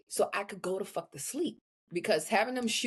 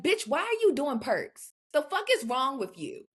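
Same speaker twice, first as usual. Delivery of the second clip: mock outrage; 6 semitones higher than usual. Ranting about girls doing perks.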